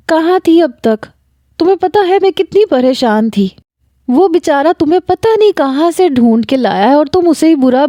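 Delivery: a mother's frantic telling off; mother scolds daughter who went missing; worried mother scolding. Acted.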